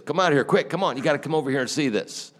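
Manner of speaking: high, fast and pressing; urgent call. Retold or imitated. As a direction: hurry him over, fast. Neighbor urgently calls him over.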